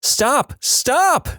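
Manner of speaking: high-pitched mock scream at normal volume; comic high yelp of protest. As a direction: squeal it like a panicked guy, without real volume. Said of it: "this guy screaming".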